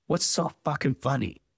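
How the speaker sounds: heated demanding question; angry demand. Acted. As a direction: snap back at the smile, offended. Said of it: "she demanded".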